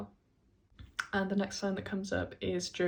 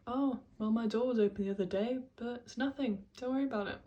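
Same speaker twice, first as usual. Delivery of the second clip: lightly mimicked brush-off, pitched up; dismissive reassurance; 4 semitones higher than usual. She tells Henry the open door is nothing, mock dismissive reassurance. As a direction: wave the worry away in a higher imitated voice.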